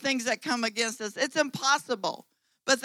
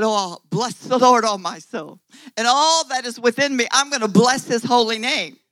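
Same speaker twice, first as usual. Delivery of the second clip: fervent praise; 5 dB louder than usual. Pretend. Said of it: "What if you turned around and said".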